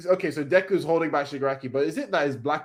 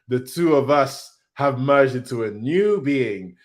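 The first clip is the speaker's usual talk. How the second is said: villain voice; 4 dB louder, slower than usual. Acted. Reading villain line in put-on voice.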